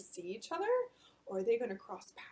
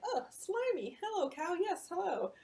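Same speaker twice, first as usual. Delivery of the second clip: Yumi giggly greeting; 7 semitones higher than usual. Acted. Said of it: "She's saying".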